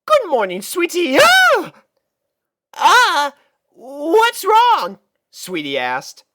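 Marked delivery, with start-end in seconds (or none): 0.0-1.2 high, sweet big sister; lightly voiced elegant mare; Rarity's voice. 1.2-5.0 high, loud panicked filly; startled and scared, blurt it out; panicked little sister; panicking. Acted.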